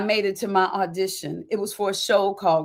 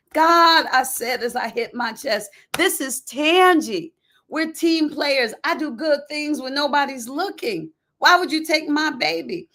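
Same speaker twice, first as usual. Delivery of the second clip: pleading with God; 5 semitones higher than usual. Retold or imitated. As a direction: beg God to explain, voice raised high. Pleading with God, hitting chest.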